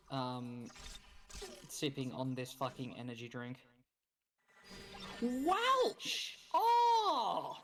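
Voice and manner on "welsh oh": excited cry. Real, not acted. Gleeful at hearing Welsh accent.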